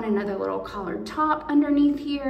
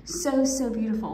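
whisper. Real, not acted. Still whispering to viewers after laughing at herself. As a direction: keep it hushed, almost reverent. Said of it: "I don't know why I'm whispering".

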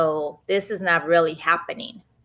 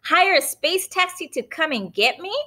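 Benny's voice; 11 semitones higher than usual. Acted. Boy Benny testing his mom, cheeky and high. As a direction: push her with a teasing question. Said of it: "suggested Benny".

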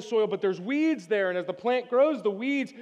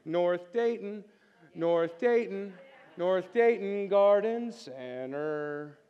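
radio jingle imitation; 3 semitones lower, much slower than usual. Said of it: "the radio commercial".

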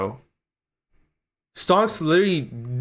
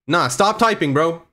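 annoyed yell; 5 semitones higher, 6 dB louder than usual. Real, not acted. Angry at chat after losing.

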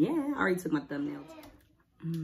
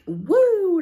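hot food yelp; 14 semitones higher, 13 dB louder than usual. Real, not acted. Burnt by hot first bite.

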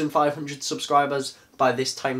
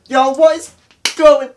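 laughing, squeaky high-pitched hello; high squeaky greeting; 11 semitones higher, 13 dB louder, slower than usual. Pretend. Mock greeting before real intro.

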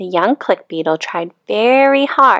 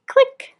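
loud click. A narrator's reading. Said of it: "with a loud".

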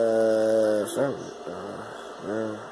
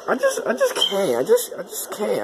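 laughing; 11 semitones higher than usual. Real, not acted. Overwhelmed, laughing disbelief.

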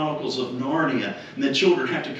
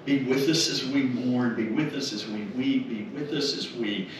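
prayer; 2 semitones lower than usual. Acted. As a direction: pray gently over the family. Leads the closing prayer.

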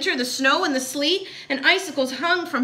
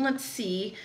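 soft musing to oneself; murmuring; 3 semitones lower, 6 dB quieter than usual. A narrator's reading. Horton working out the first step, murmuring. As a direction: think aloud under your breath. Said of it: "murmured Horton".

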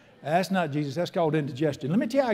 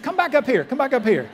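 calling out; 7 semitones higher, 7 dB louder than usual. Real, not acted. Calling the congregation back to order.

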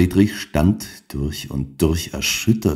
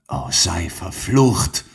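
bitter curse; 3 dB quieter, slower than usual. A narrator's reading. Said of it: "rief Frau Helena".

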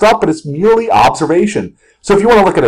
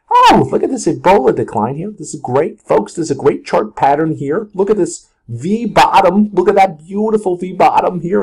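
mock-pleasant chart commentary, higher lift on the praise; put-on presenter's delight; composed on-air gushing; 3 semitones higher than usual. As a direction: admire the chart as if nothing had happened. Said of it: "I'll come back and be like".

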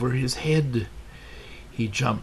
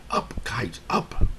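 a mild shout building on the last up. Acted. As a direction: call the kite up, rising to the final word. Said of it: "He shouted".

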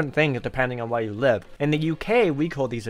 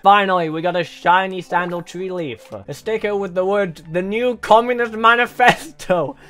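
lightly hammed-up announcer, pitched higher; mock announcer hype; 6 semitones higher, 6 dB louder than usual. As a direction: hype it up like a promo read. Hypes the last sticker.

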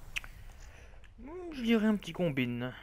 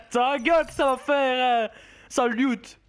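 laughing curse; 3 semitones higher, 4 dB louder than usual. Real, not acted. Mock-insulting game voice line.

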